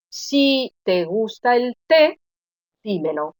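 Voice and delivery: deliberate dictation-like delivery. Shown as a demonstration. Teacher reads out the example sentence.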